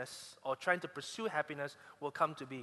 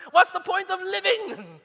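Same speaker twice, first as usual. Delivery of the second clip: much higher, louder, laughing; laughing mock despair; 13 semitones higher, 12 dB louder than usual. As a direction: throw up your hands in jest. Mock despair over cars.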